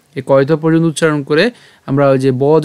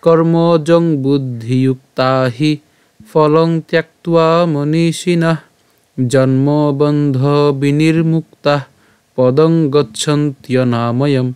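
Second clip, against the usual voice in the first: slow, measured Sanskrit shloka recital; verse recitation; much slower than usual. Shown as a demonstration. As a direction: recite slowly phrase by phrase, holding long vowels. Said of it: "শুরু করে পাঠ করি". (ধীরে টেনে শ্লোক পাঠ)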